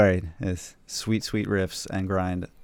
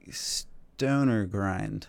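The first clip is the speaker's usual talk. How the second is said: hesitant; much slower than usual. Real, not acted. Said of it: "your hesitation while you're saying that".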